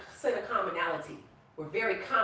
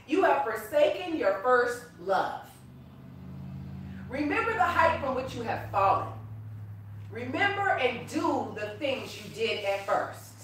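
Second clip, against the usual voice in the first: forceful scripture reading; 4 semitones higher, 4 dB louder than usual. Acted. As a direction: lay down the warning to the church. Reading the rebuke from Revelation.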